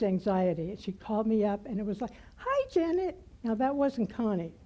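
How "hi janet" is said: much higher, bright chirpy greeting; imitating an overjoyed friend's high hello; enthusiastic. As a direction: sing out the greeting full of joy.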